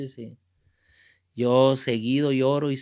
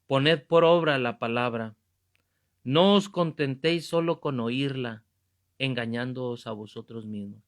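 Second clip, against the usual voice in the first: scripture reading; 3 semitones lower than usual. Acted. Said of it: "dice Santiago uno veintidós".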